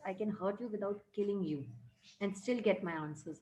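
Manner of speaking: slow, deliberate reading of the English text; measured classroom read-aloud; story reading. A narrator's reading. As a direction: read each word out carefully for the class. Reads English story lines aloud.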